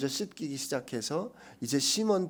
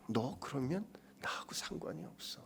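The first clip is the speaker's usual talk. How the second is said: whisper; 12 dB quieter than usual. Acted. Whispered words of Jesus.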